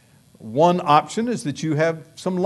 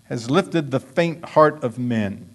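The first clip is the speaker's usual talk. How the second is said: quoted sermon reading; 5 dB louder than usual. Retold or imitated. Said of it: "Someone said".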